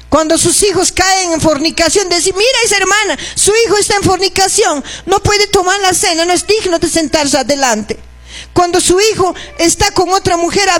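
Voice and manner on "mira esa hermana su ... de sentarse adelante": raised, scornful gossiping voice; a touch of snide whispering-behind-backs tone; mock gossip. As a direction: mimic the church gossips judging a sister. Gossiping church members mocked.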